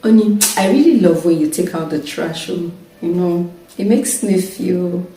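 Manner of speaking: soft, fond thanks; sweet appreciative talk to husband. Retold or imitated. Wife sweetly thanking husband to coax help, soft and fond. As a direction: coax him gently with praise. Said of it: "I just say".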